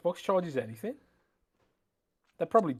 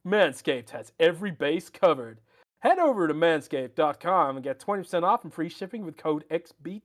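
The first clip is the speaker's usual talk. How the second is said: put-on American accent. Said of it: "let's use your American accent here".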